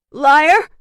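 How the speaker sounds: high, loud outburst; wounded, furious cry; accusing shout. Acted. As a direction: hurl the accusation. Girl hurls an accusation.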